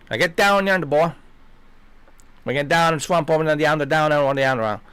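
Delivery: hammed-up, hard-to-understand swamp Southern. Swamp people baffling an outsider, thick Southern accent. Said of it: "some swamp language".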